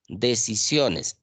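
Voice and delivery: very slow so the vowels can be heard; slow syllable demo. Shown as a demonstration. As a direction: stretch "Decisiones" to show the diphthong. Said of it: "I O, diptongo". ("Decisiones" muy lento, marcando el diptongo)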